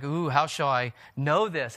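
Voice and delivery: Ooh, how shall I know this asked with mild wonder; lightly mocked curious asker. Shown as a demonstration. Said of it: "we don't wanna read this in a way that sounds like".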